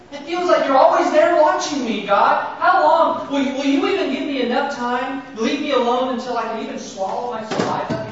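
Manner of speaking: anguished plea, rising in pitch and volume; Job pleading. Acted. Job crying out to God in anguish. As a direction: cry out to God, worn down and begging. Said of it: "Can you hear Job saying that here".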